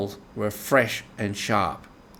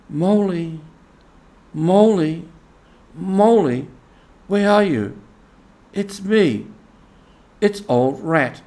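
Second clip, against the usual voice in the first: higher, louder cheery calls into the wood; cheerful calling out; 6 semitones higher, 3 dB louder than usual. A narrator's reading. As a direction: call out brightly for a lost friend. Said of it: "calling out cheerfully".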